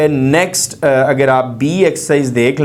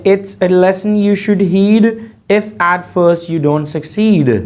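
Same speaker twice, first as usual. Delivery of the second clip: tag; 2 semitones higher, much slower than usual. Shown as a demonstration. Teacher reads poem lines.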